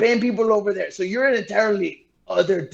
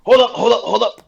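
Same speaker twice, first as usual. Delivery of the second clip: quick, raised hold up; hasty placating; 6 semitones higher, 7 dB louder than usual. Acted. Tico stopping the witch from casting, urgent. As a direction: rush to stop her casting. Character stalling the angry necromancer.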